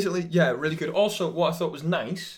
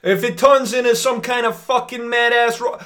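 angry rant; 10 semitones higher, 11 dB louder than usual. Acted. Comic rant, shouted.

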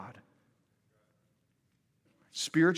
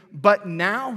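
"But now," called out louder, rising; preached scripture quote; 3 semitones higher, 7 dB louder than usual. Acted. Preacher reading Paul to the congregation, proclaiming loudly. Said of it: "he says".

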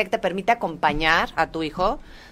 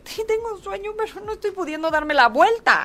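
put-on baby's voice; 12 semitones higher than usual. Le pone voz al bebé.

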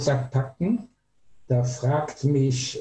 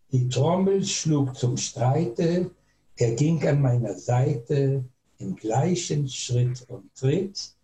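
reading a song text. Shown as a demonstration. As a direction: recite the old soldiers' song line by line. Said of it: "lese ich es hier vor".

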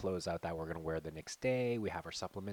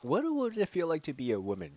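laughing; 10 semitones higher, 5 dB louder than usual. Retold or imitated. Voicing a wondering thought.

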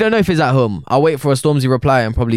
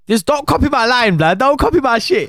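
high mock voice; 12 semitones higher than usual. Mock-quoting a rapper's line.

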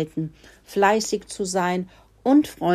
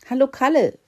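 high, louder cheery mouse greeting; cheerful squeak; 8 semitones higher, 5 dB louder, faster than usual. Acted. Two mice greet the pig Kalle, high and cheery. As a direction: chirp a bright hello. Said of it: "fiebten die beiden Mäuse munter".

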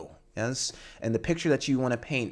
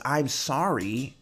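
slow, sincere I'm sorry; heartfelt sorry; 2 semitones higher, much slower than usual. Shown as a demonstration. Teacher contrasting formal and heartfelt apology, slow and sincere. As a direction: say "I'm sorry" slowly with real remorse. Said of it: "has the feeling of emotional engagement".

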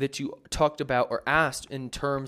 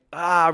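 mock belting; 4 semitones higher, 9 dB louder than usual. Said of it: "really trying to sing super loud".

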